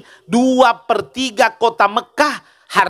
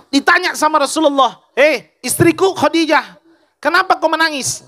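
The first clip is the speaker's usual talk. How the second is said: higher, emotive preacher's voice; impassioned sermon storytelling; 7 semitones higher than usual. Acted. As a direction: tell the sacred story with raised pitch.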